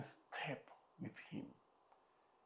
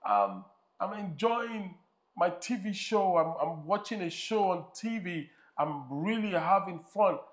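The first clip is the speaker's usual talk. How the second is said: put-on high, whiny child protest; mock childish whine; whining boy; 4 semitones higher than usual. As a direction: whine like a kid. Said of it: "And the boy like".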